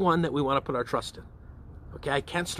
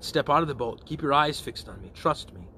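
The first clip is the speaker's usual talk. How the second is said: gentle invitation. Acted. Christ inviting a follower to trust, gently. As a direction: coax them gently to trust, settling downward. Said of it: "The one is an invitation to trust".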